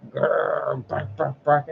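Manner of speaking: mock growl, then spoken barks; playful spoken dog noises; imitated dog barking. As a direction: do a quick dog growl and bark. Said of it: "like, barking at the wall".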